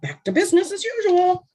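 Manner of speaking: high, laughing through it. Real, not acted. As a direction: giggle the words out. Jokes about the villain.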